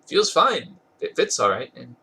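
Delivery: a touch of happy brightness, not fully voiced; happily. A narrator's reading. Astrid answering Hiccup about the fit, mildly happy. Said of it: "Astrid replied happily".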